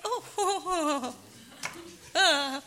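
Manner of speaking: high laughing oohs; laughing gush. Retold or imitated. Naive wife cooing over diamonds, high and laughing. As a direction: giggle out the ohs up high.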